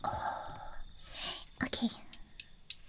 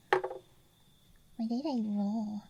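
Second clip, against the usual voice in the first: ASMR whisper. Real, not acted. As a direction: whisper close to the mic. ASMR dice show-and-tell.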